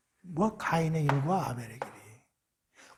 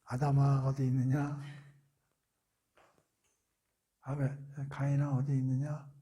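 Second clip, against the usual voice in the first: God calling; 4 semitones lower, 5 dB quieter than usual. Acted. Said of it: "콜링하잖아".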